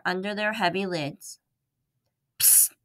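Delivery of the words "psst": psst. A narrator's reading. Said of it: "said Ralph".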